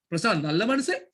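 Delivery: "மனுஷன்" lifted at the end as a question; questioning tune. Shown as a demonstration. Teacher showing a third way of saying it, questioning rise on "மனுஷன்". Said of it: "மூணு விதமா சொல்றேன்".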